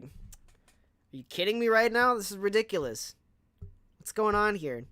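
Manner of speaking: mock-outraged customer at the counter; exasperated disbelief. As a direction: let the outrage climb as you ask. Exasperated retold outburst at GameStop.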